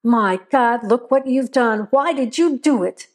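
a lightly voiced stern father scolding; a hint of a stern old man catching the boy. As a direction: scold the boy, hard and firm. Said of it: "Mister Johnson's voice said sternly".

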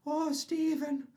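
slow, high-pitched mock rapture; high, drawn-out comic reverence; hammed-up Irishman. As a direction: croon over it like a stage Irishman. Hammed-up Irishman praising holy beer.

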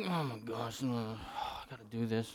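very low, soft mock mutter; begrudging grumble. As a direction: mumble it like an unwilling helper. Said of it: "begrudging attitude about what we're doing".

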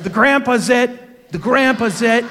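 high, loud, slow mock kid shout. Boy in the water calls out that grandpa is it, high loud mock shout. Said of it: "he shouts out".

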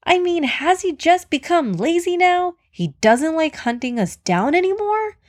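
worked-up, jittery storybook animal; jittery nervous antelope. A narrator's reading. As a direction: fret with rising pitch, nervous antelope. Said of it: "The antelope was jittery and nervous".

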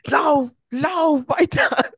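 high, loud, slow mock movie-hero plea. Imitating his sister like a film hero, hammed-up and slow. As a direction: play it like a dying film hero. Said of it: "wie so im Film so".

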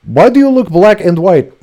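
high, loud hammed-up Russian accent. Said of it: "That was more Russian than Arab".

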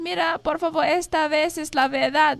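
high-pitched acted plea; pleading. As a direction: beg to be believed, as the boy. Boy pleading to be believed. (súplica actuada, en tono agudo)

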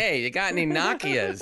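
Nokias said as NOCK-ee-uhs, playful; mock British pronunciation. American rehearsing British words for next visit, mock British pronunciation. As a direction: jokingly put on British "Nokias" with short o. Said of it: "I'm gonna say".

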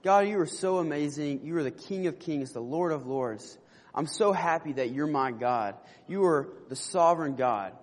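lightly acted reverent praise, softening and lowering; prayer of praise. Preacher models telling God how amazing He is, gently reverent. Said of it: "in our prayer life and tell Him".

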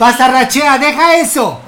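scolding a pet. Pretend.

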